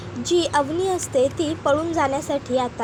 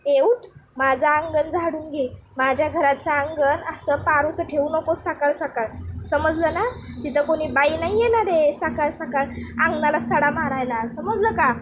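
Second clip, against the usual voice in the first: aunt shouting. Acted. Aunt calls out from behind ordering Bhanya to sweep, bossy. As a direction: order him up like a scolding aunt. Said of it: "मागून आत्या ओरडते".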